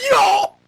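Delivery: high startled shriek into a yell. Real, not acted. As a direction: shriek then shout Yo. Jump scare shriek.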